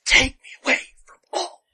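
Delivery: high, loud, crying melodrama; overacting Winona. Mocking Winona's overwrought line to cohost, high tearful wail. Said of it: "she was trying so hard".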